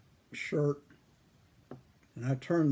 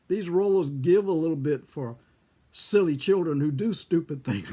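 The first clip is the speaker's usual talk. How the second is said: louder, emphatic imitation of a grandmother's chiding; 3 semitones higher, 6 dB louder than usual. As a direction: punch it out as a retold grandmotherly telling-off. Retold grandmother chiding silly child.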